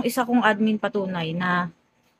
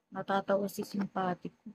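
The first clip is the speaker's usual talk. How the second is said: normal talking voice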